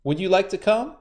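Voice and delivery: sly spider, high and sweet; a crafty trickster sounding friendly; high, cunning spider; high Anansi voice. A narrator's reading.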